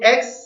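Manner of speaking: एक्स isolated as one syllable; एक्स set apart as the first syllable; single syllable. Shown as a demonstration. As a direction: say एक्स in one beat, then pause. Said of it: "इतना एक जुबान की हरकत से अदा करता हूँ".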